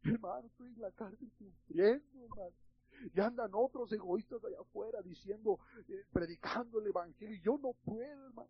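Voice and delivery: a touch of self-pitying whine; mock whining. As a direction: whimper about suffering in jail. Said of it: "hubiera estado chillando".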